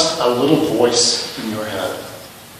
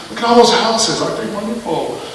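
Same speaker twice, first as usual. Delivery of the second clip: high-pitched chattering commentator; mock wonder in a high voice; little inner voice; 10 semitones higher than usual. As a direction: play the voice in your head, pitched way up. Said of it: "the little voice is going to go".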